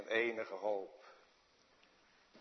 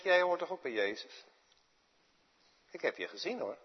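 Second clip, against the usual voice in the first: a touch higher, pointed question; lightly voiced servant girl accusing Peter; accusing maid; 9 semitones higher, 4 dB louder, faster than usual. Maid accusing Peter, lightly voiced pointed question. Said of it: "En zijn meisje zegt".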